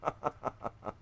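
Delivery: high, loud burst breaking into laughter; laughing surfer exclamation. Pretend. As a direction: crack up halfway through the mock surfer cry. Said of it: "I don't know how they talk".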